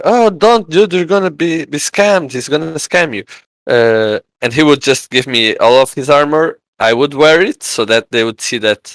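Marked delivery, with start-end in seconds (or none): 0.0-3.2 warning crowd. Retold or imitated. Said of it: "everyone around was like".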